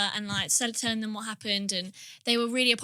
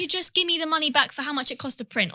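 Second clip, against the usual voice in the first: getting mad; 5 semitones higher than usual. Retold or imitated. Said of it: "Like, I was getting mad".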